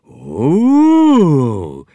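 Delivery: high loud egg chorus; a gasp-like "Oh" from the eggs; Eggies' chorus "Oh". A narrator's reading. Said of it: "said the other Eggies".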